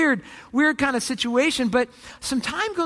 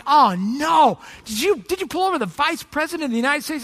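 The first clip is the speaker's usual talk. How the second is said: panicked captain. Acted. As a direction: play a boss starting to panic. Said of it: "now he's really panicked".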